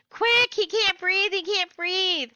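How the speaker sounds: put-on frightened boy shouting that his friend is choking; panicked call for help. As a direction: yell for the nurse in panic. Boy running for the nurse.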